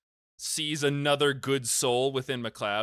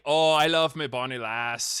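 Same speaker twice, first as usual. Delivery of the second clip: fake Scottish accent; 4 dB louder than usual. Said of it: "my fake funny one".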